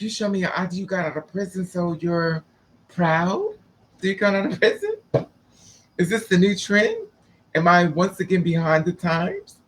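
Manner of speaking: lightly mocking, rising questions; a touch of put-on bewilderment, ending upward; mock incredulous. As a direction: question it with a lilting mock disbelief. Acted incredulous questioning of ex-prisoner.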